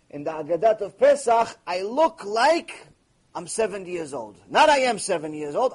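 ordinary talk

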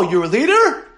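ordinary delivery

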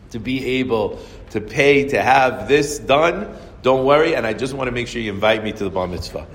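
calm an upset man on the phone; reassuring calm. Retold or imitated. Saul calming the angry caller.

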